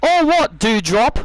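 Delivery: cocky heel taunt; mocking taunt. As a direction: dare her to try. Taunting rival.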